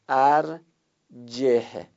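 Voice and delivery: ارجه drawn out very slowly, final e held; teacher recites ارجه slowly for students to note down; slow recitation model. Shown as a demonstration. Giving the class one reading, slowly. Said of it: "یه قرائت همینه".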